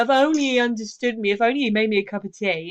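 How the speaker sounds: lightly voiced longing wife; wistful wife. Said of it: "you see that played out in comedies".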